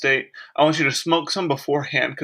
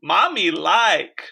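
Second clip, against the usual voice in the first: seductive. Pretend. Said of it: "Sensual thing number two to say".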